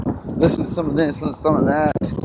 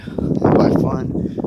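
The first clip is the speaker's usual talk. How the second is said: sarcastic; much slower than usual. Real, not acted. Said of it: "in the most sarcastic fucking way".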